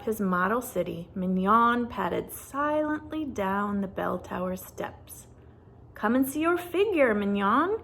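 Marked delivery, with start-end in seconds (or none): 5.9-7.8 calling. Acted. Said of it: "Quasimodo called to him".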